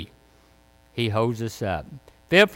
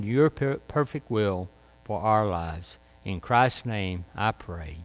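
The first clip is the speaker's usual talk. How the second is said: closing prayer; 3 semitones lower than usual. Acted. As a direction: pray gently to close the sermon. Closing prayer after sermon.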